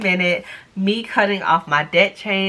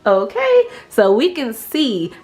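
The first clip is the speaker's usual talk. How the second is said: excited; 5 semitones higher than usual. Real, not acted. Excited start of chain cutting.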